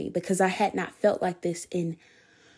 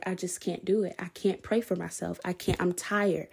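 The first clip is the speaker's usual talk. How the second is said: weary; 6 dB quieter than usual. Retold or imitated. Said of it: "I was like".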